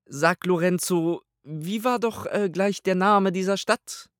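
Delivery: a haughty pontiff asking his servant; pope's voice. A narrator's reading. Pope voiced in audiobook.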